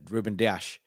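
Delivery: Dias said as "DEE-ash"; proper pronunciation. Shown as a demonstration. Trying out how you're supposed to say it, Portuguese pronunciation. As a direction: finish Dias with sh. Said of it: "that's how you're supposed to say it".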